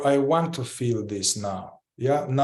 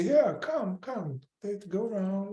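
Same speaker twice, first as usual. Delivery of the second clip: true welcoming; 6 semitones higher, 5 dB quieter than usual. Retold or imitated. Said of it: "so that's true welcoming".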